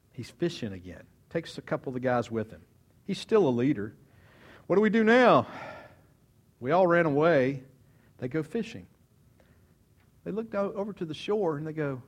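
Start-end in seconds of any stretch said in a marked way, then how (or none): 4.7-7.6 loud, pitched-up anguished question; distressed outcry. Acted. Disciples who fled wondering what now, distressed. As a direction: cry out at a loss. Disciples' despair voiced loudly.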